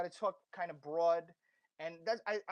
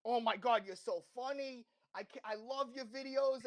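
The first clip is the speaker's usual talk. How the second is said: higher-pitched mock gushing; a touch of proud-dad enthusiasm, pitched up; imitating gushing dad; 4 semitones higher than usual. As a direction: lightly mimic a delighted parent fan. Mimics dad gushing over his videos.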